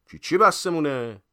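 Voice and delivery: high, loud indignant comeback; indignant retort. A narrator's reading. Reader retorts to friend who wants to stop at noon, indignantly. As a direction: snap back loudly, offended. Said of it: "با تغییر جواب داد".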